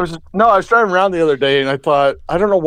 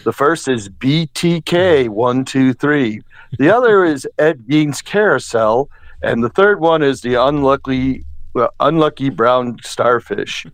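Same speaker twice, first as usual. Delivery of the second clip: Shadoe Stevens voice. Acted. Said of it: "Do, like, a Shadoe Stevens voice".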